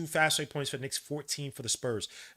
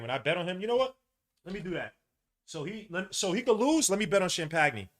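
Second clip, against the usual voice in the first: rising rant; 6 semitones higher, 4 dB louder than usual. Real, not acted. Fan ranting about his bet.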